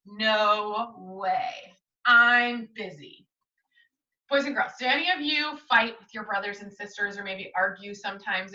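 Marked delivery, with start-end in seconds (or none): 0.1-3.3 put-on grumpy brush-off in a girl's voice; annoyed big sister. Jane brushing off her little brother, grumpy and dismissive. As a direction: shut your pesky brother down.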